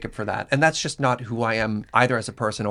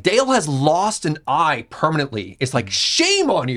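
slow, stretched mock scolding; retold fury. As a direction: imitate an indignant telling-off, drawing words out. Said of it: "He was furious".

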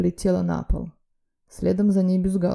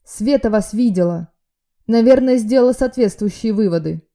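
loud, raised urgent warning; urgent alarm; 4 semitones higher, 8 dB louder than usual. A narrator's reading. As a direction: press the bad news hard. Friend warns urgently. (взволнованное предупреждение)

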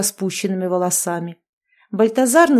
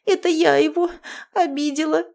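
sobbing; 7 semitones higher than usual. A narrator's reading. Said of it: "всхлипнула".

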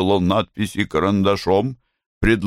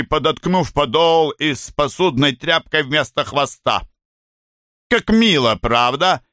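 mocking; 4 semitones higher than usual. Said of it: "Белла с издёвкой".

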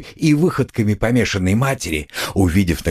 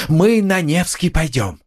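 high, frantic calling; frightened cry; 7 semitones higher than usual. A narrator's reading. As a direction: call out for the children in fear. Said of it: "вскрикнула она вдруг в испуге".

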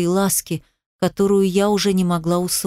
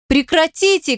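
screaming; 8 semitones higher than usual. A narrator's reading. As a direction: scream to stop them. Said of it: "кричала я".

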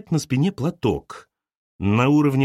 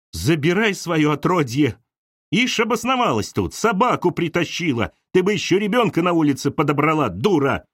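high, spat-out abuse; blurted insult; 5 semitones higher than usual. Acted. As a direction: Galya lashing out at Arina. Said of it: "выпалила Галя". (Галя выпалила со злостью)

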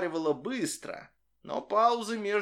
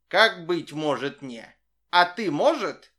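squeaky monkey voice; 3 semitones higher, 7 dB louder than usual. A narrator's reading. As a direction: squeak a puzzled question. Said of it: "писклявым голосом". (писклявый голос обезьяны)

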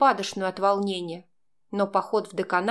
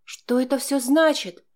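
higher, indignant demand; spat-out question; 5 semitones higher, 4 dB louder than usual. A narrator's reading. Girl demanding Max explain himself, spitting it out. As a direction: spit it out at him. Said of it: "выплюнула я".

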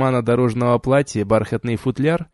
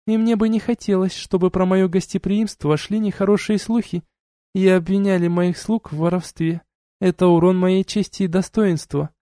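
duchess voiced higher, cool and lecturing; stern duchess; 7 semitones higher than usual. A narrator's reading. Duchess reproaching the couple, cool and lecturing. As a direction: scold them like a haughty duchess. Duchess explains her honor.

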